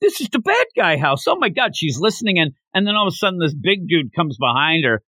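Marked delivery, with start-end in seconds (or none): 0.0-1.8 put-on little girl voice. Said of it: "And she's like".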